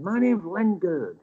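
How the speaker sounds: well-spoken. Retold or imitated. Older angler gives his name, lightly well-spoken. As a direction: lightly imitate a well-spoken man, drawn out. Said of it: "and very well spoken".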